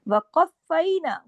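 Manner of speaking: वक़फ़ैना with a heavy क़ joined tightly to फ़; वक़फ़ैना with a thick क़ and firm join; heavy qaf. Shown as a demonstration. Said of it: "क़ाफ़ मोटा और फा के साथ सख्ती से जोड़ना है".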